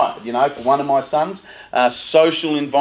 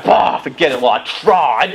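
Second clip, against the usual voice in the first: tanty dad; 4 dB louder than usual. Retold or imitated. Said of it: "That's tanty dad and tanty mum".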